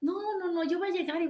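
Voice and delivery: half-hearted combative rush; mock fighting-cock bluster. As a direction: play the hothead ready for a fight, lightly. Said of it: "como gallito de pelea diciendo".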